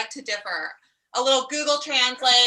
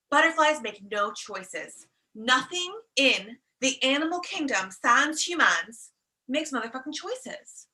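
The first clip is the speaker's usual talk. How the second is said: slow, deliberate lecture; slowed-down preachy point; slow emphatic; slower than usual. Acted. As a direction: lay out each word slowly for emphasis. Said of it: "coach emphatic point".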